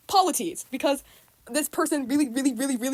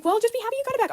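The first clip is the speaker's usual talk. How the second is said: higher, lightly mocking mom; imitating mom; 10 semitones higher, faster than usual. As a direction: echo mom's advice in a higher mock voice. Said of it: "my mom was like".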